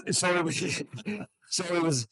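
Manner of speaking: real laugh breaking into the words. Real, not acted. Speaker gets back to his story after the joke, laughing.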